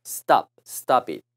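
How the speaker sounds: "stop it" linked as one word; sound change with "it". Shown as a demonstration. Teacher showing how "stop it" changes sound, linked. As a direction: join the p of "stop" onto "it". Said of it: "소리가 변해요".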